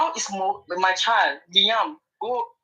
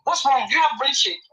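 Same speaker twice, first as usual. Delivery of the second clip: angry; 4 semitones higher than usual. Real, not acted. Heated quarrel, insulting.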